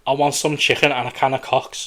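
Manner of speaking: lightly camped-up Scouse accent; Scouse impression with a camp touch; gay Scouse. Shown as a demonstration. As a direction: demo a Scouse lead-in phrase, camp. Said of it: "The lead-up phrase for gay Scouse is".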